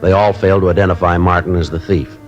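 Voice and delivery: even, clipped-down case report narration; calm detective voiceover summing up the case; story narration. A narrator's reading. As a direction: recount the investigation like a matter-of-fact police report. Detective narrates case over music.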